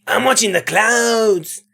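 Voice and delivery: drawn-out Mexican accent attempt; lightly done, slow Mexican accent. Shown as a demonstration. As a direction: try it slowly in a put-on Mexican accent. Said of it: "give this girl a Mexican accent".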